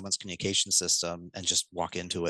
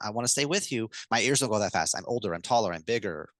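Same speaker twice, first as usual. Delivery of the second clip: slowing down calmly. Shown as a demonstration. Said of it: "and then you're decelerating".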